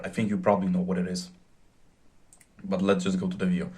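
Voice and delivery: hoarse, aching throat; talking through a sore throat. Real, not acted. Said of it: "Sorry for my voice, my throat is kinda aching".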